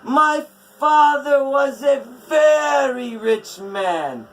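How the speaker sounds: loud, high, defiant refusal; angry giantess. A narrator's reading. Skadi rejecting Odin's gold, loud and furious. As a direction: spit it back in contempt.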